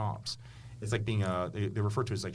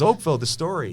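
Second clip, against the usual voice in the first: higher, louder, a lightly voiced 1930s speaker; old-time radio talk; 8 semitones higher, 9 dB louder than usual. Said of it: "nineteen twenties, nineteen thirties kinda talk".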